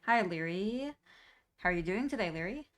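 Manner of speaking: lightly voiced old grandma; a hint of a sweet grandma; grandma voicemail. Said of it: "Kitboga's grandma impression".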